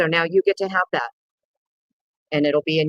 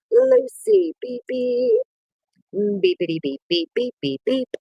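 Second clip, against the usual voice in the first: playful beeping greeting; 13 semitones higher, slower than usual. Pretend. Greeting viewer with beeps.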